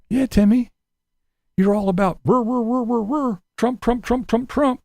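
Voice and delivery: mock a liberal growling about Trump.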